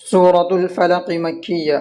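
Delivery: slow, measured title reading; formal surah announcement. Acted.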